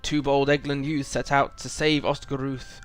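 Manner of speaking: lightly voiced wise old wizard, grave; a hint of a stern old wizard; wizard dialogue read aloud. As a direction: read it like a solemn wizard giving warning. Reads Radagast's quest dialogue aloud.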